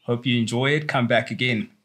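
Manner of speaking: fast, hammed-up Mexican accent; bad Mexican accent at speed. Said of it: "such a horrible Mexican accent".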